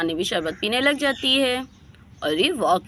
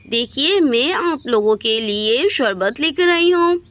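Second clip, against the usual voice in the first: slightly raised, lilting offer; lightly voiced friendly neighbour; 3 semitones higher than usual. Reena arrives with a jug of sherbet for the neighbours, mildly eager.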